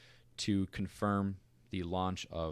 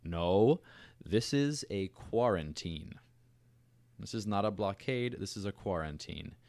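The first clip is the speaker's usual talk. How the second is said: quoting Kennedy; 3 semitones higher, 4 dB louder than usual. Retold or imitated. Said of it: "J F K said".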